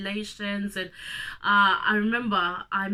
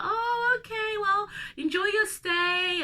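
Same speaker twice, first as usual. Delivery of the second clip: high, bright mock official voice, a little slower at the end; friendly official; 13 semitones higher, slower than usual. Imitating the official who welcomes the children, high and bright. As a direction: chirp it like a cheerful official. Official waving them through.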